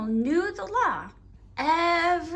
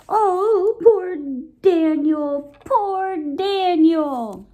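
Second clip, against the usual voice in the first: louder, drawn-out pity; mock pity; 3 semitones higher, 7 dB louder, much slower than usual. A narrator's reading. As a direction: lament for poor Daniel.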